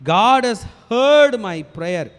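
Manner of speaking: slow, emphatic proclamation, word by word; confident declaration. Retold or imitated. Preacher voicing David sure that God has heard, confident declaration. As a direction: declare it firmly, stretching the key words. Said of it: "he is giving a confident declaration".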